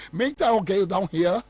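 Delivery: slow, careful put-on English to a driver; a light imitation of a polite English-speaking rider; mock English speaker. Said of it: "wo te borɔfo na wotare kaa no ho".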